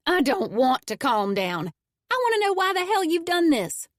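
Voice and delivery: building from tight to a high furious cry; furious retort to being told calm down. A narrator's reading. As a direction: let the rage break loose. Acted quarrel, rising fury.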